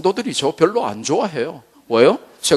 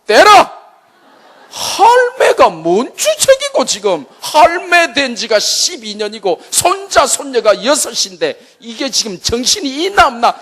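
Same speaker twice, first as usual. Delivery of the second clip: much higher, louder Gyeongsang rant with laughter; Gyeongsang husband; 9 semitones higher, 4 dB louder than usual. Retold or imitated. Father telling mother to abort, angry Gyeongsang rant. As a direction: bark like a gruff Gyeongsang father. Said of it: "경상도 남편".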